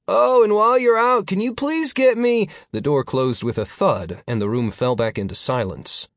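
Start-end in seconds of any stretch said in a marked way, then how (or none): 0.1-2.5 high, loud call cut short. A narrator's reading. Nick calls after Philip as the door closes, calling out. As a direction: call after someone leaving, pitched way up. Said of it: "Nick called out".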